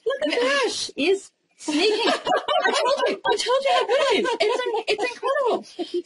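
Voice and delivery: high, laughing teasing. Real, not acted. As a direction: laugh while teasing the sneaker. Catching a co-host sneaking a taste.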